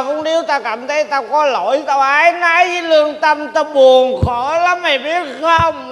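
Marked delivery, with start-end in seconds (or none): 3.5-5.9 mock grief. Mock grief over dead father.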